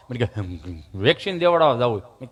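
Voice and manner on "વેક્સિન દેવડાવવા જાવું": imitated halting stammer, pitched down; stammering friend. Friend telling comedian he's going for vaccine, imitated stammer. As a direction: play the friend whose tongue sticks. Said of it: "જીભ જલાઈ ચોંટે અટકે".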